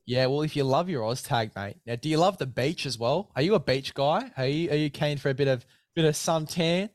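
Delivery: upbeat, punchy sponsor pitch; hyped ad read. Acted. Host selling Oz tag kits to his guest, hyped ad read. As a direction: sell the Oz tag kits like a radio ad.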